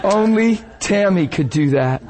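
laughing out only Tammy; chuckling affection. Real, not acted. Preacher reacting to Tammy, laughing.

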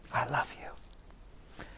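whispered, slow tenderness; hushed, loving reassurance; tender peacemaking. Retold or imitated. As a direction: breathe it out slowly in a whisper. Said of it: "he's making peace with her".

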